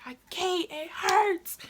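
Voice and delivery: high-pitched mock wail; retold pained scream. Answering mom in pain, high imitated wail. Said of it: "I was screaming".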